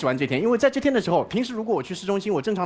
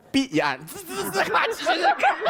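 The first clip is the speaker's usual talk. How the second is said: helmet sound effect; 10 semitones higher, much slower than usual. Retold or imitated. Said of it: "helmet noise".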